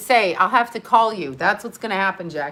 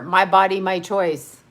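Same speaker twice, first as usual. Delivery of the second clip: a lightly voiced, lower take on the billionaire; mildly mock the tech billionaire, lower and drier; Bill Gates impression; 4 semitones lower than usual. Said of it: "this would be a Bill Gates".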